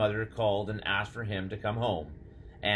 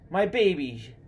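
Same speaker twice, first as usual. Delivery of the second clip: high, louder cry of relief; emotional mother; 10 semitones higher, 6 dB louder, slower than usual. Acted. Mother taking Flora in her arms, overcome with relief.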